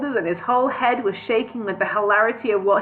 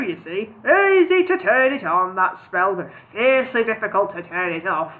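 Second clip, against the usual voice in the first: wizard voice. Acted. Wizard voice held.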